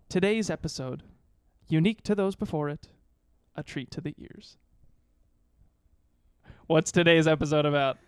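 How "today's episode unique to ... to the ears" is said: poem recital. Acted. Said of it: "That was a haiku".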